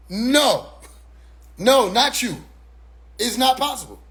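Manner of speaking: lightly acted refusal to believe it; can't-believe-it protest; mild disbelief. Acting disbelief at betrayal.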